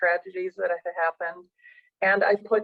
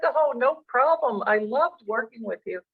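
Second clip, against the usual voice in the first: tongue in cheek; 4 semitones higher than usual. Retold or imitated. Coach answering a grateful client, high and breezily casual. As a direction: toss it off lightly, as if it were nothing. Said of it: "tongue in cheek".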